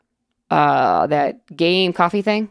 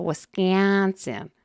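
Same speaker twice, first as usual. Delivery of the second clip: soft, very slow mock Wisconsin accent; imitated Wisconsin accent; 4 semitones higher, 5 dB quieter, much slower than usual. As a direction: draw WISCONSIN out, teasing the accent. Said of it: "they always do that thing too".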